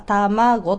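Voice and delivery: peak in the middle of 卵, drawn out; middle-high accent. Shown as a demonstration. Teacher demonstrates second pattern with 卵, middle-high accent. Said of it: "最初が低く、真ん中の音節が高く".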